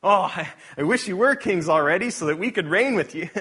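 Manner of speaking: loud, high, cutting sarcastic jab; sharp sarcasm. Acted. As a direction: jeer it up high and loud like a stung apostle. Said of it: "He's being really, really sharp and sarcastic".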